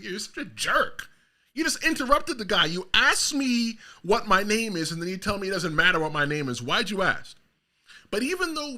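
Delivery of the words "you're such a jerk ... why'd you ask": indignant retort. Retold or imitated. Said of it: "It's like".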